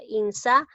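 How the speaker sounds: "insania" with weight on SA; "insania" said in-SA, nia; stress on sa. Shown as a demonstration. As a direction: lean on SA, then pause before nia in "insania". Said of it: "resaltemos la sílaba tónica".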